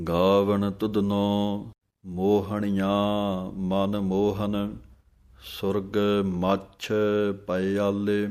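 slow, clear scripture reading with pauses; measured devotional santhya; slow Gurbani recitation. Shown as a demonstration. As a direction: recite line by line for students to follow. Teacher recites verse slowly.

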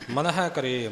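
ਮਨ ਹੈ said firmly, not softened; corrected ਮਨ ਹੈ ਕਰੇ, without slackening; firm correct reading. Shown as a demonstration. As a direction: give ਮਨ ਹੈ a firm, clear sound. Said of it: "ਪੋਲਾ ਜਿਹਾ ਨਹੀਂ ਬੋਲਣਾ".

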